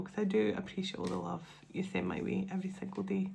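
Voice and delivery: whispered, choked with real emotion; barely voicing it, moved to tears; emotional whisper. Real, not acted. Thanking her viewers, a tearful real whisper. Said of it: "becoming an emotional wreck already".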